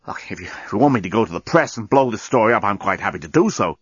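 gasping for air; breathless, struggling for oxygen; out of breath. Acted. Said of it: "He was panting and gasping".

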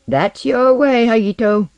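high, loud taunt; jeering. A narrator's reading. Osden throws the suggestion back at Haito, jeering. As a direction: jeer it right back at her. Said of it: "he jeered".

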